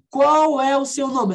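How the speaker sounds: word-by-word "Qual é o seu nome"; slow textbook question; unnatural slow Portuguese. Shown as a demonstration. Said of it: "Nem no português você fala isso".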